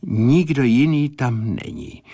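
a hint of a medium reporting what she sees; measured, trance-like clairvoyant reading; entranced seer. Clairvoyant describing her vision.

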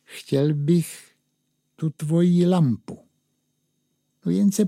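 malinký král zvýšeným hláskem; tenounký hlásek. A narrator's reading. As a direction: mluv tenkým hláskem drobného krále. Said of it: "svým tenonkým hláskem a řekl". (tenonký, lehce zvýšený hlásek)

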